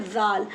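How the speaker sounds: जाल begun with a voiced "th" as in "this"; tongue at the teeth for the first sound of जाल; careful lisped-sounding "dhaal" for जाल; th-like zaal. Shown as a demonstration. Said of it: "जाल ऐसे भी pronounce करते".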